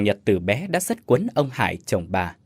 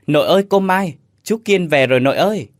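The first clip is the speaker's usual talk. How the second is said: much higher and louder, joyful shout while running; excited calling out; 7 semitones higher, 5 dB louder than usual. A narrator's reading. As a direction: call to grandma across the yard, thrilled. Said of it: "vừa chạy vừa nói". (reo lên mừng rỡ, cao và to)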